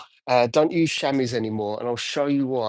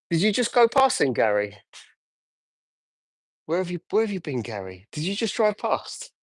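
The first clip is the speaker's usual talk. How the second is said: pitched-up greeting called out to a friend driving past; surprised call to friend; 4 semitones higher than usual. Real, not acted. Detailer spots friend Gary going past, calls out higher. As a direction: catch him as he passes, pitched up.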